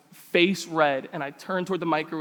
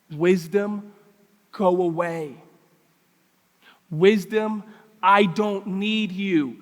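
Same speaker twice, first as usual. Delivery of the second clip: acting out a stubborn refusal, drawn out and building louder; defiant refusal; 6 dB louder, much slower than usual. Preacher voices the unteachable rejecting wisdom, defiant and building. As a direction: push wisdom away, slow and emphatic. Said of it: "what's their posture? Is it palms up? It's palms out".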